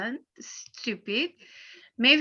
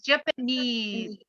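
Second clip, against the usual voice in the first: "Japanese" stressed on NESE; slow ja-pa-NESE, weight on the end of "Japanese"; stress on third syllable; slower than usual. Shown as a demonstration. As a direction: draw out the last syllable of "Japanese". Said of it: "in the third one".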